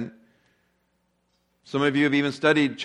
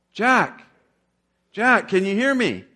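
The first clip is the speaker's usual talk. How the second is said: calling out; 7 semitones higher, 5 dB louder, slower than usual. A narrator's reading. God calls down the canyon.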